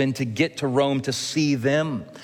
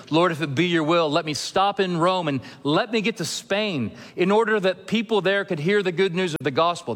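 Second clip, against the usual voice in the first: raised, quick pleading prayer of Paul; voicing Paul's prayer; 6 semitones higher than usual. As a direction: plead as Paul asking to reach Spain. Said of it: "like he was asking the Lord".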